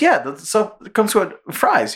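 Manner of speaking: high, slow insistent duck; Daffy voice. Retold or imitated. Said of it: "He goes".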